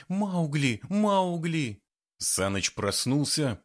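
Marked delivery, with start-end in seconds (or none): 0.1-1.8 громко и высоко зовёт Маугли; кричит в ночи, чтобы разбудить; крик. A narrator's reading. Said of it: "разбудил крик Валерии". (Лера будит Саныча ночью, громкий крик)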